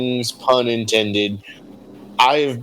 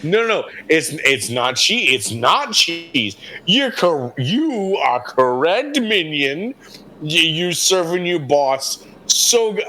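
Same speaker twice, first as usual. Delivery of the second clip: higher, put-on bargaining voice; 4 semitones higher than usual. Adventurer bargaining with the rat boss in a higher put-on voice. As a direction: wheedle like a slick dealer. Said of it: "I don't know why I'm doing that voice again".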